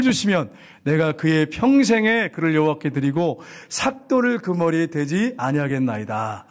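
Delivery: slow, drawn-out recitation; scripture reading. Acted. Preacher reads Hannah's vow with the congregation, scripture reading. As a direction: read slowly, stretching the phrase endings.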